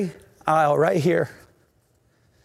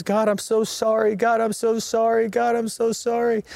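higher, pleading apology with a tearful edge; 5 semitones higher than usual. Retold or imitated. A young man at the altar pleads tearfully with God. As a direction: beg forgiveness through held-back tears. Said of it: "I was just crying and crying".

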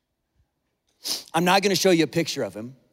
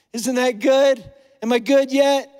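higher-pitched bid for approval; needy pleading; 4 semitones higher, 4 dB louder than usual. Acted. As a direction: plead to be told you are good enough. Acting out begging God for approval.

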